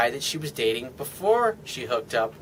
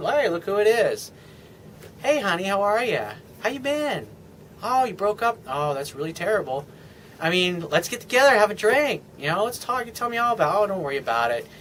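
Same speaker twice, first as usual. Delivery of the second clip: charming call to an ex. Retold or imitated. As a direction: coax her over with easy charm. Acted phone call to an ex.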